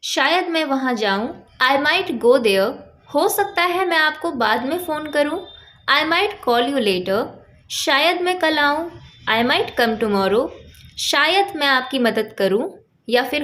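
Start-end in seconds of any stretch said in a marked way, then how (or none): 1.6-2.7 very slow, carefully spaced English words; slow teaching demo. Shown as a demonstration. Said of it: "example देखिए". 5.9-7.2 very slow, carefully spaced English words; slow teaching demo. Shown as a demonstration. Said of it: "example देखिए". 9.3-10.5 very slow, carefully spaced English words; slow teaching demo. Shown as a demonstration. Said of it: "example देखिए".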